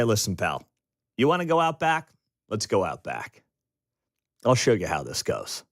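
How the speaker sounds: understated low tough-guy warning before the punch; tough threat. Retold or imitated. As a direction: drop low and menace him. Victim finally threatening the bully.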